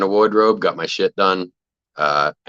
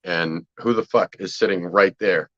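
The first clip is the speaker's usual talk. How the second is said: ordinary talk, nothing marked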